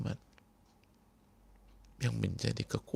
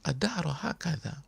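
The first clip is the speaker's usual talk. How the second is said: weary repeat; 5 semitones higher than usual. Acted. Yasir asks again.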